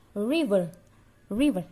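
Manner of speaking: "River" with the R held back in the mouth; teacher modelling the R in "River"; tucked English R. Shown as a demonstration. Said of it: "huruf R kita agak simpan".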